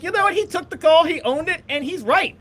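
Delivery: high and loud, backing Dabo hard; emphatic defense. Retold or imitated. Quoting himself defending Dabo, high and emphatic. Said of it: "I'm like".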